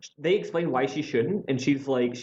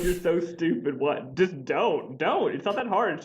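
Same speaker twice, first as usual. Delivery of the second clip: exasperated scolding; 6 semitones higher, slower than usual. Retold or imitated. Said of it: "It's like".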